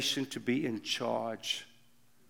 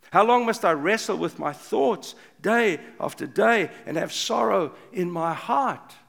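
impassioned lament; 3 semitones higher, 6 dB louder than usual. Acted. Reading David's psalm of lament.

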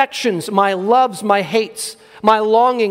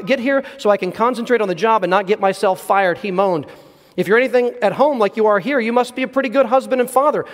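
brisk reading. Real, not acted. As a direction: read the story aloud at a brisk, even clip. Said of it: "I'll try to read it somewhat quickly".

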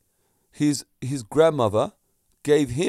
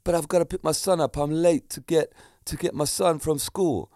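imitated English accent; 4 semitones higher than usual. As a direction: play the apologetic driver with a hint of English accent. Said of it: "talking in this English accent".

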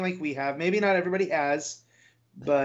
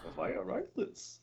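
slow and much softer; whispered Bane line; 2 semitones higher, 13 dB quieter, much slower than usual. Pretend. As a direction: breathe the line slowly, hushed. Echoing quote softly.

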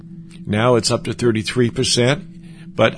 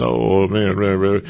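obnoxious braggart; 6 semitones lower than usual. Retold or imitated. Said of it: "I'm not talking about obnoxiousness".

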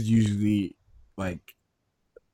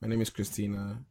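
a touch of a timid new student; new kid in school; 5 dB quieter than usual. Retold or imitated. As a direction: softly introduce yourself like a shy new kid. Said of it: "they just shipped you from America".

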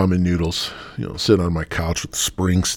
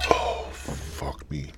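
slow breathless groan; choked after hit; 3 semitones lower, 5 dB quieter, much slower than usual. Real, not acted. After a strong hit, breathless slow groan. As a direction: wheeze it out. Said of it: "That's a banger".

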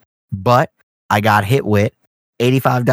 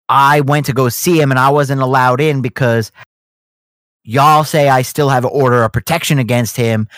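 mock angry yelling; 3 semitones higher than usual. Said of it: "yelling at a clerk behind the window".

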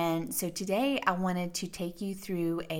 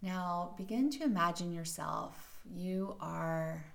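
soft, even meditation voice with long pauses; guided meditation; 9 dB quieter than usual. Acted. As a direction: softly guide the listener into settling and breathing.

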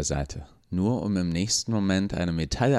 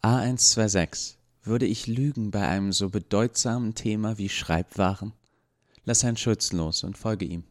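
calm, sincere; 2 semitones higher than usual. Acted. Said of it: "mit ruhiger Stimme, ohne einen Hauch von Sarkasmus".

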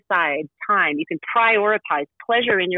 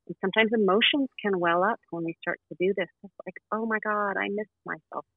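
soft spa whisper; 3 dB quieter than usual. Acted. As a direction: ease them into the breath, hushed. Leads a breathing meditation.

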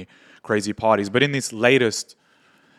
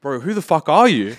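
stunned disbelief; 5 semitones higher, 6 dB louder than usual. Retold or imitated. Retelling shock at meeting a star.

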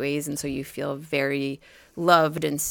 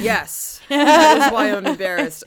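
higher, louder whiny teen impression; mock embarrassed son; 6 semitones higher, 8 dB louder than usual. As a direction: play the sulky son, a bit hammed-up. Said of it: "He was like".

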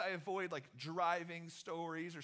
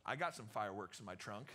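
lower, murmured creepy-guy voice; creepy man; 10 semitones lower, 5 dB quieter than usual. Retold or imitated. Theater worker tempting the teens, in a low creepy voice. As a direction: sound like a shady stranger offering trouble.

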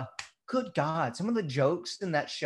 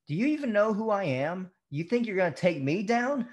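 megalomaniac rant; 6 semitones higher than usual. Retold or imitated. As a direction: play the arrogant supervillain. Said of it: "he sounds like a fucking supervillain".

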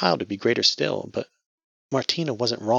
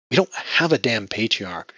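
snapping; 2 semitones higher, 4 dB louder than usual. Acted. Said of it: "she snapped".

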